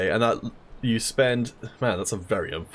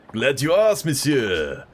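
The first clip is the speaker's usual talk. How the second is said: put-on French accent; 5 semitones higher, 4 dB louder, slower than usual. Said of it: "how to do an old French accent".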